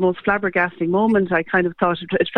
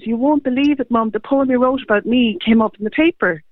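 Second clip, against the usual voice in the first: imitating an excited son, higher pitched; retold excitement; 6 semitones higher than usual. Mother retelling her son's news about the poem, mildly excited. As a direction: relay his amazing news in a raised pitch.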